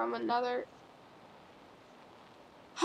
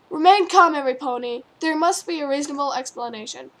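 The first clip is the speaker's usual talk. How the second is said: calming mayor; 6 dB louder than usual. Acted. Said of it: "the mayor explained".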